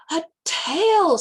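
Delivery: high, excited squeak; a small lamb squeaking with delight. A narrator's reading.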